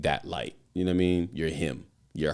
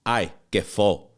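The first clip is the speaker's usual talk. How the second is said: a light, slow hint of an old grandmother; abuela's voice; slower than usual. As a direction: lightly voice your abuela, drawn out. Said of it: "That's what my abuela would say".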